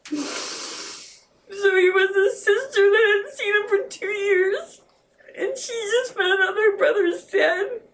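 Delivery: pushing words out through real tears; crying. Real, not acted. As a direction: grief rising in the voice. Tells of daughter learning of death.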